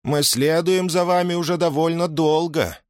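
high-pitched female character voice; woman's voice. A narrator's reading. Owl answers Lilia in a high woman's voice. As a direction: narrator voicing a woman, pitch lifted throughout. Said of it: "сова ответила женским голосом".

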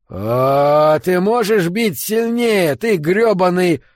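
loud, high, drawn-out roar; angry goading. Acted. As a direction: egg him on with a furious yell. Goading partner to hit harder. (яростно подгоняя)

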